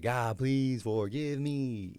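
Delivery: slow, pleading mock prayer in a changed voice; mock desperate prayer. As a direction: beg forgiveness, dragging it out. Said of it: "I'm on my knees like".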